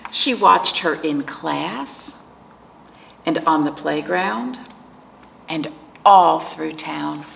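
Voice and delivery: slow, measured storytime reading; picture book narration. A narrator's reading. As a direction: read it to preschoolers, lingering on key words. Reads picture book to children.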